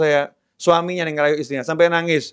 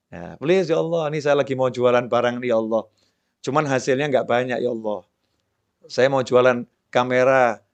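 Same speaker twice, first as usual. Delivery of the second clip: pampered pleading to God; 5 semitones lower than usual. Acted. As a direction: sweet-talk God like a spoiled child asking for more. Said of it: "tinggal kita bermanja-manja sama Allah".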